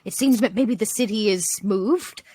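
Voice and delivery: low, measured squirrel voice; subdued, low in-character musing; squirrel character, grave. Acted. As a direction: gravely report to the group in character. Player speaking in character.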